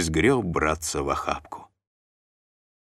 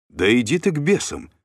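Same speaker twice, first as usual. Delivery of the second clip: brushing off; 9 semitones higher, 4 dB louder than usual. A narrator's reading. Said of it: "отмахнулся Духарев".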